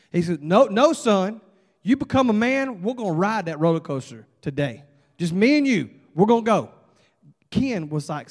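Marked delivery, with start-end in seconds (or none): 0.4-6.7 firm, louder dad overruling his son; insistent dad. Acted. Dad telling his son they ride today, insistent. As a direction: brush off the protest with punch.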